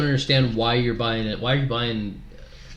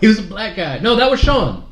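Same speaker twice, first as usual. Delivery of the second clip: excited; 8 semitones higher, 6 dB louder than usual. Real, not acted. Heated argument over trivia.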